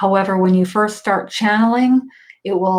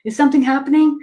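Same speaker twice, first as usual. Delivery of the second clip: higher, fast, eager "am I feeling something?"; anxious straining; 5 semitones higher, faster than usual. Retold or imitated. Imitating a sitter anxiously trying to feel angels. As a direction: push and fret like a student trying too hard. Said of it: "if you're like".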